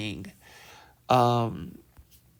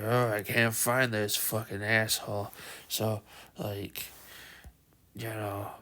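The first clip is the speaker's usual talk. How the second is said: low muttering monster; 3 semitones lower, 4 dB quieter than usual. Retold or imitated. Giant muttering, then spotted.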